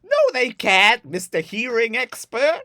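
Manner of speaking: high, loud and slow sarcastic retort; hammed-up prickly sister; snippy Jill. Sister snaps back at her brother, high sarcastic retort. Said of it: "Jill replies with".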